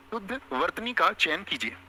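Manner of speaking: शुद्ध वर्तनी का चयन कीजिए read slowly, word by word; teacher repeating slowly for dictation. Shown as a demonstration. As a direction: say it slowly so the class can write it down.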